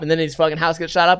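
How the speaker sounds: ordinary delivery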